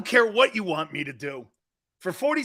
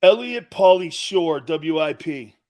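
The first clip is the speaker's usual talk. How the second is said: spoken to Siri; 6 dB louder, slower than usual. Real, not acted. Dictating name to Siri.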